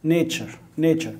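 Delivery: Nature said "NAY-cher"; "tu" pronounced "ch". Shown as a demonstration. Teacher drills pupils on spelling, Nature pronounced "NAY-cher". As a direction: say Nature with the t-u as a "ch" sound. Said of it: "التي مع اليو كده تتنطق اتشا".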